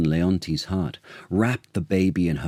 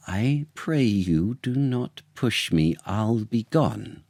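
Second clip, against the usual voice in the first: higher, pleading lady's voice; a light, higher plea not to be pushed; Paulina; 4 semitones higher than usual. Acted. Paulina protests as the king's men push her, higher voice. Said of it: "said Paulina".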